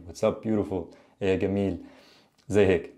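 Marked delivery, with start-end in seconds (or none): 1.2-1.8 "gamil" with a hard g sound; Egyptian hard g. Shown as a demonstration. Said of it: "the jim turns into a ga".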